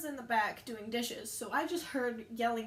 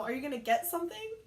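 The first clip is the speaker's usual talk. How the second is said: higher-pitched retold question, rising at the end; prodding question; 4 semitones higher, 4 dB louder, faster than usual. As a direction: imitate a coworker prodding a customer. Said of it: "I heard Donna go".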